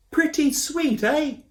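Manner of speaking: high, slow, loud proud call; shouting proudly. A narrator's reading. Koo calls up.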